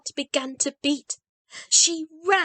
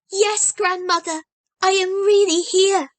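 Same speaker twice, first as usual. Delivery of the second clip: reassuring; 7 semitones higher, 5 dB louder than usual. A narrator's reading. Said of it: "in a reassuring voice".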